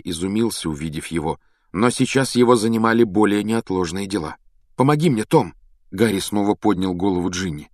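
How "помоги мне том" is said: higher-pitched call for help; urgent plea. A narrator's reading. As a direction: plead with him to help. Harry pleads for help. (настойчивая мольба)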